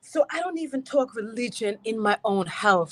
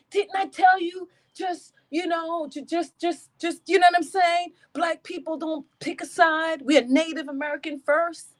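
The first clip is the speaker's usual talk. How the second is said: scolding; 6 semitones higher than usual. Retold or imitated. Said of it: "I'm typing in this chat".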